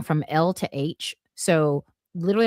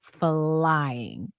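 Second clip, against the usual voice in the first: drawn-out; much slower than usual. Retold or imitated. Dramatic emphasis on running fast.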